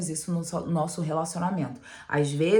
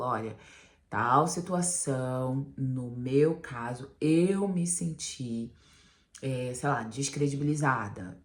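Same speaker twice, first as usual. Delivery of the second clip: lower, slow and gentle; soft sweet talk; 4 semitones lower, slower than usual. Shown as a demonstration. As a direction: speak gently about your feelings. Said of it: "Essa é uma comunicação muito mais doce, mais suave". (fala doce e suave, baixa e lenta)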